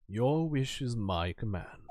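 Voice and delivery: slow, low obliging servant; bow and oblige slowly; servile bailiff. Acted.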